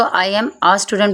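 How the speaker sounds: "a" as open "uh" before student; "a" unlike its letter name; correct article sound. Shown as a demonstration. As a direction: say "a" openly in "a student". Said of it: "ए नहीं बोलेंगे".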